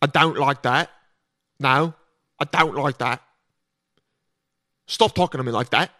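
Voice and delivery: mock British with rounded, stretched O in "don't"; British accent, big O. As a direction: lightly imitate a prim Brit, lengthening the O. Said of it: "they make the O, like, bigger".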